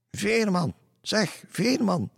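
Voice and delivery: very high, loud, drawn-out call; calling woman's voice. A narrator's reading. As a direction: hail the ferryman in a high woman's voice. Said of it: "weerklonk er een vrouwenstem". (hoge roepende vrouwenstem)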